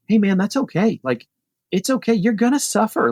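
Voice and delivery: high-pitched, re-enacted consoling; retold reassurance. Cyclist consoling a struggling rider, retold high-pitched reassurance. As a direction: reassure him as in a story, pitched well up.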